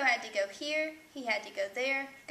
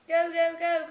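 loud, higher cry of frustration; exclaimed, pitched up and punched; 6 semitones higher, 11 dB louder than usual. A narrator's reading. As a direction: call it out loud and urgent. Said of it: "cried Hugo".

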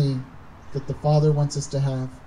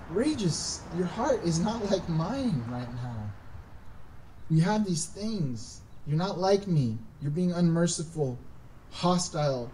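gentle correction; 2 semitones lower, 5 dB quieter than usual. Retold or imitated. The Lord answering Regis about his heart, gently correcting. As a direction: lightly voice a patient Lord, unhurried and quiet.

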